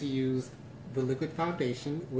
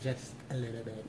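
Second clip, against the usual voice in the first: put-on snobby girl voice; 2 semitones lower, 3 dB quieter than usual.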